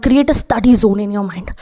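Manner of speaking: very slow, deliberate and weighty; slow emphatic advice. Shown as a demonstration. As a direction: lay each word down like a rule. Teacher states key advice.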